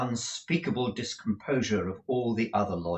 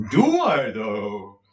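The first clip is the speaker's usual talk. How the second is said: excited exclaim; 2 semitones higher, 10 dB louder, much slower than usual. A narrator's reading. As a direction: leap at the idea. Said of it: "exclaimed Mister Lenville".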